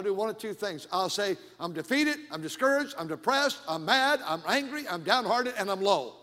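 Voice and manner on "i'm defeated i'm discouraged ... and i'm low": loud, comic litany of woes; mock despair. Pastor jokingly answering a greeter, mock despair in punched bursts. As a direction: pile up the complaints, hammed-up, dropping at the end.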